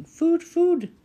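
put-on very high, loud baby-bird demand; piercingly high hungry hatchling voice; hungry gosling. A narrator's reading. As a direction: peep urgently for food. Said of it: "peeped the gosling".

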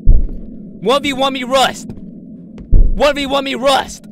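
slow, loud and high, stretching the words; one v one taunt, dragged and loud; drawn-out challenge yell. Real, not acted. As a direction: call the monster out like a fighter.

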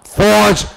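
फौज opened on an emphasised f; stress on फ. Shown as a demonstration. Teacher demonstrating a Persian loanword, stress on the फ in फौज. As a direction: lean into the first sound of फौज. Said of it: "फा शब्द पर ज्यादा जोर दिया जाए".

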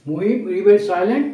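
slow, deliberate phrasing; slow model reading. Shown as a demonstration. Teacher modelling the sentence, slow and careful. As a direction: say it slowly so students follow. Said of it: "আমরা বলি এরকমভাবে".

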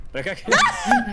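high, loud burst of laughter. Real, not acted. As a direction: cackle out loud. Teasing friend, loud laugh. (risada alta)

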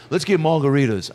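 lightly mimicked star voice, a bit high; light celebrity impression; a singer. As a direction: suggest it in a put-on celebrity voice. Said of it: "a singer's here".

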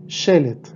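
Shelet, repeated cleanly with a falling close; Hebrew word shelet. Shown as a demonstration. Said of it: "esto sonaría como shelet". («Shelet» repetido como modelo)

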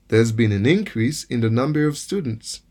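increase with the stress on IN, said evenly; noun stress on IN. Shown as a demonstration. Teacher repeating the noun example, stress on IN. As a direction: let the IN of increase carry the stress. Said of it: "Lòske se yon non".

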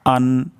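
distinct hamza opening আন; clear hamza. Shown as a demonstration. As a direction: say আন with a crisp glottal onset. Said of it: "হামজাটি এখানে সুস্পষ্ট হবে". (স্পষ্ট হামজায় আন)

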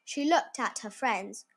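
put-on animated read-aloud for young children; measured, expressive storybook reading; story narration. A narrator's reading. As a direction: read a picture book with lively emphasis.

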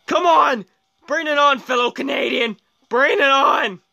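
high, fired-up taunt; pumped-up competitive call; excited challenge. Real, not acted. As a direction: dare the rival racer on. Taunting rival racer.

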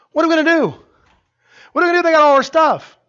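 loud and high, frantic; panicked yelling. Acted. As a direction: shout it like a ruined king. Pharaoh panicking, voiced shouting.

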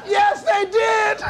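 drawn-out, high, laughing yes; slow emphatic agreement. Acted. Preacher to audience, slow emphatic laugh. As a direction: stretch it out slowly for the crowd.

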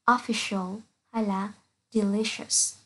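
slow, careful English with a clear sh in "official" and "delicious"; slow sh demo. Shown as a demonstration. Teacher modelling the sh in "official" and "delicious" for students. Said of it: "C sẽ được phát âm là sh như là".

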